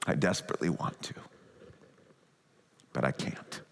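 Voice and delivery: low, soft, sorrowful no; gentle Father's refusal. Retold or imitated. Preacher voicing the Father refusing Jesus, low and soft. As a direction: let him down tenderly and low. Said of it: "the Father says to him".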